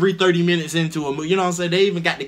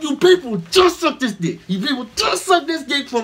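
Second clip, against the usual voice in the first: mock rant; 6 semitones higher than usual. Ranting at the cheering crowd.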